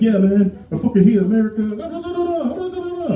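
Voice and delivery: loud, high mock Polish cab driver ranting into gibberish; mock Polish accent. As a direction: lampoon a Polish cabbie, pitch jumping way up. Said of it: "like, Polish and shit".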